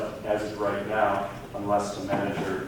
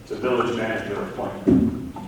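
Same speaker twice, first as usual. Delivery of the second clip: louder, spelled out for a bad line; to someone hard of hearing; 7 dB louder than usual. Real, not acted. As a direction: speak up so they can hear. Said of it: "speak up, please? I can't hear you".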